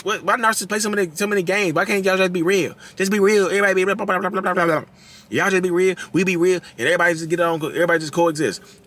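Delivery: high-pitched mocking whine running into blah-blah; mock whining plea. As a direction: parody a naive complainer, high throughout. Mimicking naive complaint about narcissists.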